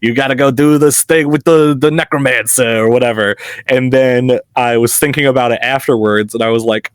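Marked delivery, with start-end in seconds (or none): 0.0-2.8 put-on half-hearted New York accent as a grung NPC. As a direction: toss it off like a gruff New York street guy. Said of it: "like, New York accent".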